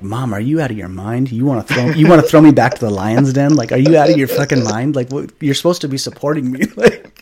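furious that mom won't take his side; exasperated outrage. Retold or imitated. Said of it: "I was so irritated".

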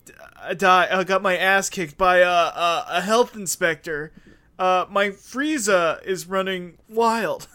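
loud hammed-up Italian character; Italian accent. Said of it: "I would just be like".

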